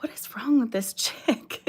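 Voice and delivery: whispered mock-judgy aside; imitating a shocked stranger, in a whisper; judging onlooker. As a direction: whisper it like a scandalized bystander. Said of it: "normal people would ... be like".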